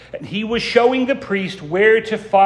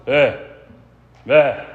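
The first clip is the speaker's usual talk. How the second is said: two short gruff grunts of greeting; a curt respectful nod in sound; mock grunted greeting; 3 semitones lower than usual. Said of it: "respectful monosyllabic mutual acknowledgments".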